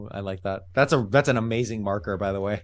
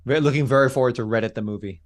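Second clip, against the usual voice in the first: sarcastic. Real, not acted. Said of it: "I'm being sarcastic".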